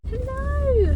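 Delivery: high, bright sing-song hello. Real, not acted. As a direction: greet the camera in a high chirpy lilt. Sing-song greeting to camera.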